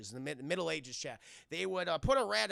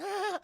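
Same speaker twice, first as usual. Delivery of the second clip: high, small cry of alarm; mock frightened yelp; 13 semitones higher, 3 dB louder than usual. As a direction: squeak as if about to be slapped. Boy about to be slapped.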